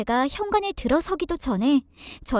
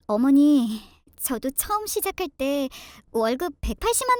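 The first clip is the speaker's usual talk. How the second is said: hurt daughter-in-law. Acted. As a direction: reason gently while hurt. Daughter-in-law reasons with mother-in-law. (서운함을 담아 조용히 말하는 며느리)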